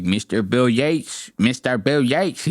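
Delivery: slow mock Latino accent; put-on Latino accent; heavy Latino accent. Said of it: "got this heavy ass Latino accent".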